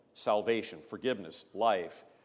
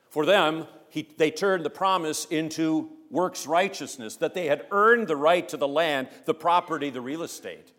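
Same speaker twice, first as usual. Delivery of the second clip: louder, higher indignant preaching; fervent preaching; 6 semitones higher, 8 dB louder than usual. Acted. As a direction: press the point with heat. Preacher rising against works righteousness.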